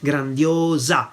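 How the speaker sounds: grandiosa with a clear final A; feminine ending. Shown as a demonstration. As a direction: say grandiosa as "gran-dee-OH-za". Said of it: "we would have to say grandiosa".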